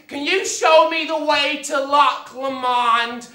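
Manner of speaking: slow, exaggerated imitation of a loud tourist; mocking loud impersonation. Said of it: "It's like your volume is set to eleven".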